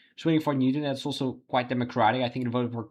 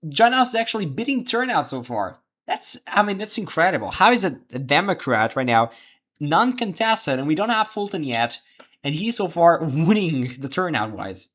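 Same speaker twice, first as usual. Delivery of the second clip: higher-pitched surprise at the numbers; real, excited disbelief; amazed; 5 semitones higher, 4 dB louder than usual. Real, not acted. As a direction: react live to an unexpected result. Surprised by candidate beating turnout.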